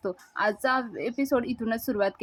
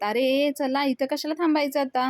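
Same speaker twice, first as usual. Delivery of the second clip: raised, mock shouting to the crowd; retold shout; 3 semitones higher than usual. Datta calls the guests to leave, in a mock shout. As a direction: call everyone out to leave, half acted. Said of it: "सगळ्यांना ओरडून सांगत".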